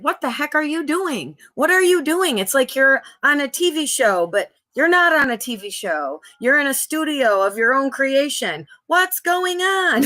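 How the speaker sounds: rising, slowing disbelief; incredulous questioning. Retold or imitated. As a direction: grill yourself in disbelief. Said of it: "I questioned".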